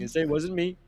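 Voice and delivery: put-on posh English accent. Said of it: "that was a good English accent".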